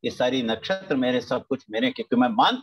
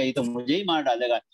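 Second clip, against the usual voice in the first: frightened spirit; 4 semitones lower than usual. Retold or imitated. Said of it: "अनात्मा कहेगा".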